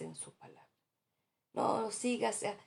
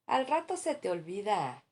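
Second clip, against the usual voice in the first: "Al rato se te olvida" más fuerte, despreocupado; cliché imitado; 3 semitones higher, 6 dB louder than usual. Retold or imitated. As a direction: imita a alguien que minimiza el dolor. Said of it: "A ver si te identificas". (ligera burla más fuerte)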